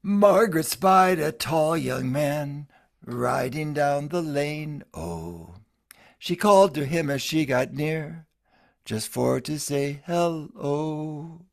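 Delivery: measured folk-ballad delivery, stretching some phrases slowly; ballad recitation. Acted. Retelling the Lord Thomas ballad to listeners, an unhurried recitation.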